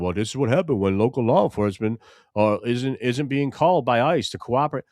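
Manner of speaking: lightly voiced mocking Schumer, slightly pinched; a hint of a doddering senator's drone; mild mock Schumer at a press mic; Chuck Schumer impression. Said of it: "I like your Chuck Schumer voice".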